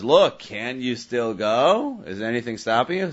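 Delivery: slow, drawn-out challenge that expects no; rhetorical question. Retold or imitated. Buyer's rhetorical challenge to the seller, slow and leading. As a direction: ask it as if the answer is obvious. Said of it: "If his robber's taina is".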